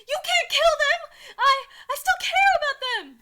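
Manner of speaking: high, loud, slow plea; desperate outburst. A narrator's reading. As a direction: cry it out in hammed-up desperation. Misread as outburst, then redone quietly.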